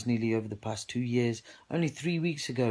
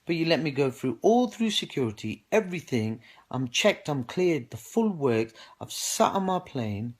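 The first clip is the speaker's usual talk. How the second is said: rising indignation; 3 semitones higher than usual. Real, not acted. Man venting to viewers about police removing him, rising outrage. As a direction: let the anger boil over, voice climbing.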